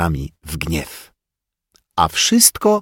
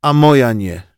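mildly worried; 6 semitones higher, 5 dB louder than usual. Acted. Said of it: "zmartwił się Rafałek".

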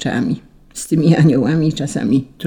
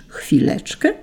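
high, rising, incredulous quote; irritated echo; 6 semitones higher than usual. A narrator's reading. Saint Peter quoting the angel's excuse, irritated disbelief. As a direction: throw the angel's word back as a question. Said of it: "zirytował się święty Piotr".

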